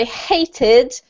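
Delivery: hated drawn out slowly as HAY-tid; corrective model pronunciation. Shown as a demonstration. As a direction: stretch hated slowly for a learner. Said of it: "This one here is hated".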